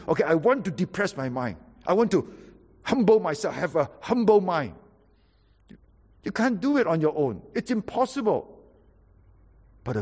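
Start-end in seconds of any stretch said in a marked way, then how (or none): 0.1-4.7 mock self-humbling. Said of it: "It's not just simply".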